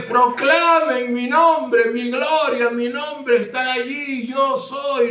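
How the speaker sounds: loud, high, drawn-out proclamation; God proclaiming. Acted. Preacher voices God demanding his name be proclaimed, proclaiming loudly. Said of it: "Dios de la Biblia dice".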